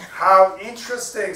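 high, loud parrot voice. A narrator's reading. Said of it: "signs the parrot".

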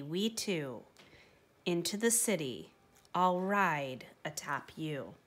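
soft, hushed, tender voice that fades to a whisper; soft and gentle. Acted. Gentle stranger telling the donkey his destiny, soft and tender. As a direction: float the words gently, like a kind secret. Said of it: "a voice soft and gentle that floated on air".

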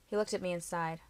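ordinary delivery, nothing marked

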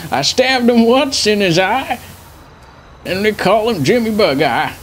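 put-on old veteran grandpa rambling; doddering old grandpa voice.

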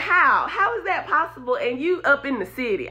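mock amazement. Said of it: "They like".

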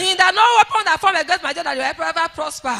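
forceful prayer declaration; fervent prayer. Real, not acted. Testifier praying protection over the daddy G O, fervently. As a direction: declare the blessing with conviction. Prays aloud for the G O.

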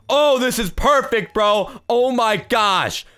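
high, drawn-out exclaiming; thrilled, stretch the words out; real excitement. Real, not acted. Troller finding the perfect room, high excited voice.

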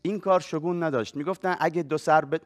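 measured storyteller read-aloud voice; literary reading, unhurried; story reading. Acted. Reads his chosen story aloud.

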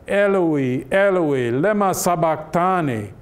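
a moderate retold outcry, not a full shout; loud cry. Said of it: "Jesus cries out with a loud voice".

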